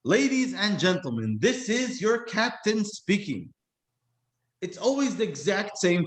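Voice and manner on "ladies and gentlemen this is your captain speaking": lightly mimicked captain on the intercom; slow, higher cockpit announcement; a hint of airline captain; pilot announcement. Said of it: "when you get on the airplane, what do you hear?".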